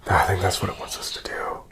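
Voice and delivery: hushed whisper. Real, not acted. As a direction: whisper in the cold cellar. Whispering on camera in cellar.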